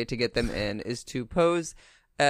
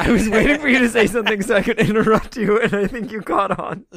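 high, fast words through giggles; laughing; 7 semitones higher, 4 dB louder than usual. Real, not acted. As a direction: confess it while cracking up.

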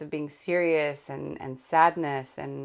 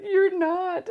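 much higher, louder quick protest; daughter's tearful reassurance; 5 dB louder than usual. Retold or imitated. Daughter insisting to crying mom that she's not a crap mom.

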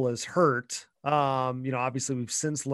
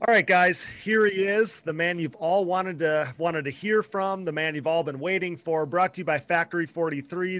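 put-on old radio announcer; 2 semitones higher than usual. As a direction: hype up the guest like a sponsor read. Hosts a sponsored guest introduction.

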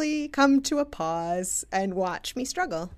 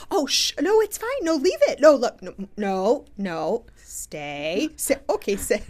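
urgent, raised voice scolding a dog; hurried, flustered commands to a pulling dog; frantic dog commands. Retold or imitated.

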